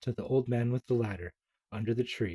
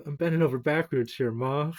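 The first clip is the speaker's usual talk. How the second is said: put-on exasperated kid; 3 semitones higher, 4 dB louder than usual.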